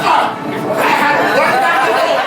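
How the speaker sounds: winded from running; panting after a run; out of breath. Retold or imitated. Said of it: "ya estoy cansado".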